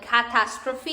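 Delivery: catastrophe with a hard k at the start; strong C. Shown as a demonstration. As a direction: hit the initial C of catastrophe as k. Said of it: "it's gonna sound like strong".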